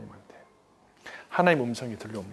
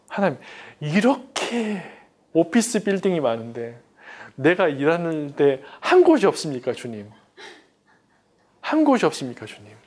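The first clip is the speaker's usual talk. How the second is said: pleading prayer; 2 semitones higher than usual. Retold or imitated. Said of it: "이런 게 제 기도였어요".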